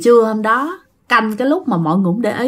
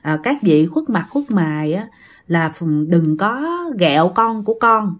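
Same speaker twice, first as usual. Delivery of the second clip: praying plea. Acted. Mother begs unseen spirits to spare her child, pleading. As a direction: plead humbly, keeping the voice down. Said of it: "cô khấn vái, cô nói rằng á".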